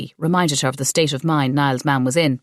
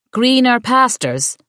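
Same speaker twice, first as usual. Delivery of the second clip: drawn-out exclamation; 7 semitones higher, 4 dB louder, slower than usual. A narrator's reading. Siobhan savours the corrected words.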